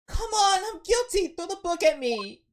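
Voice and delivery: high, loud pleading cry; hammed-up plea for punishment; pleading shout. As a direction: beg to be convicted, all out. Voicing a character begging guilt.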